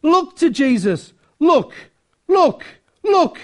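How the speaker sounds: acted-out fervent shouted exhortation; Primitive Methodist shout. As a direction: shout it from the pulpit in short, punched bursts. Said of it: "he shouted, as only a primitive Methodist will do".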